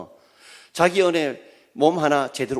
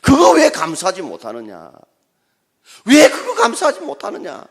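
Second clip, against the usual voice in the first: God's tearful rebuke; 8 semitones higher, 8 dB louder than usual. Acted. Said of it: "하나님의 응답".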